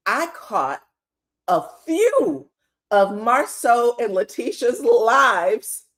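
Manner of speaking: barely holding in a laugh on the quote; can't keep a straight face. Retold or imitated. Retelling Chris's words while trying not to laugh. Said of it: "Hold on, I gotta say this with a straight face".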